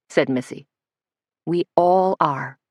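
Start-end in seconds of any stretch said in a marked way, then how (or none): 1.4-2.6 slow, soothing reassurance; calm a flustered friend gently. Acted. Suzanne calming Missy at the table, slow soothing tone. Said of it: "in a soothing tone of voice".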